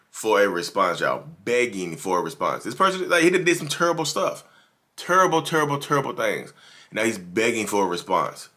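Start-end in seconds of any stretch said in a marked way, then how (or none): 2.6-6.5 outraged. Real, not acted. Outraged commentary on the ex.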